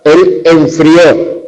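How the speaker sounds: "él enfrió" very slow, en-frió in two syllables, stress on the last; enfrió slowly. Shown as a demonstration. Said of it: "una palabra de dos sílabas". ("enfrió" muy despacio, acento final)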